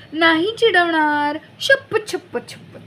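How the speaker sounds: put-on high, eager promising girl; pleading promise. A narrator's reading. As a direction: swear it earnestly, over and over. Sister swearing to be nice.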